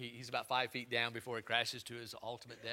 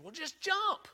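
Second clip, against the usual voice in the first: high, light encouraging call; coaxing father; 6 dB louder, slower than usual. Retold or imitated. Young father coaxing his toddler off the ledge, high and gentle. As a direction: coax the little one to jump.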